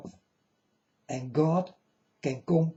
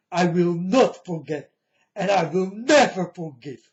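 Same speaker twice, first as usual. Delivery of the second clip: loud vow; 2 semitones higher, 6 dB louder than usual. Real, not acted. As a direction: hammer out the vow of never forgiving. Vowing revenge for his father.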